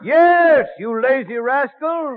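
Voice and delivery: teasing call. Acted. Hailing the slow ferryman.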